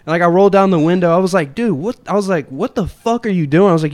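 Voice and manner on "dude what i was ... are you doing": high, mock furious yelling; telling the old driver to shut up, mock angry; retold angry yell. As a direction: snap at the old guy, pitched way up. Retelling road rage yell.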